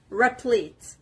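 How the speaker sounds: "replete" with the weight on "plete"; teacher's model "replete", stressed from the P. Shown as a demonstration. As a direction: say "replete" carefully, stressing the second syllable. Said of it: "The stress is on the P".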